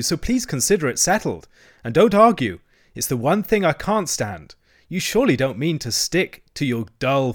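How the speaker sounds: high, insistent wheedling; imploring Toad. A narrator's reading. Toad persuading Rat to leave the river, imploring. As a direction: plead while brooking no argument. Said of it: "said Toad imploringly".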